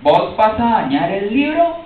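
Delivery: put-on guard confronting the reader, Cali accent. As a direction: scold him in a Cali accent. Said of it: "me dice con su acento caleño".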